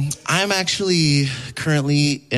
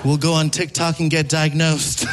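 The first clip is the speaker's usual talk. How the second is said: mock shocked; 4 semitones higher than usual. Comedian answering his boyfriend's question, shocked and high. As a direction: act stunned then play along. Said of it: "I was like".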